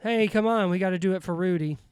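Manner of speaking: loud but emotionless huddle rally; mock a wooden actor's pep talk; flat Vince Vaughn pep talk. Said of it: "you wanna talk about having no emotion whatsoever. Vince Vaughn, when they're in that huddle".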